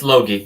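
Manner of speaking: Logie with a hard g, as in "get"; long o, hard g in Logie; correct name pronunciation. Shown as a demonstration. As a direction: say Logie as LOH-ghee. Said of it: "You got it right".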